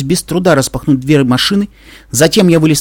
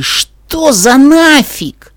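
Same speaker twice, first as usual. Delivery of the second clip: shocked; 12 semitones higher, 3 dB louder, much slower than usual. Acted. Dash sees Twilight's wings.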